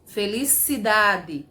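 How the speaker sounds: felicidade stretched out slowly to show the suffix; slow word demo. Shown as a demonstration. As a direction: draw out felicidade slowly for the class. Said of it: "mais o pedacinho dade". (felicidade pronunciada devagar, destacando o sufixo)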